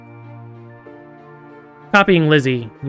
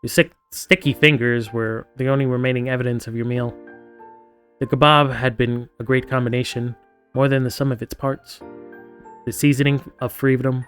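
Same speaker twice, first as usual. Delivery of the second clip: story narration. A narrator's reading. Reads game narration aloud.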